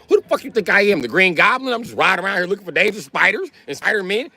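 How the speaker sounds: high-pitched, worked-up incredulous rant; indignant disbelief. Retold or imitated. Storyteller refusing to fight a spider, high indignant rant. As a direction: ride the voice high in comic outrage.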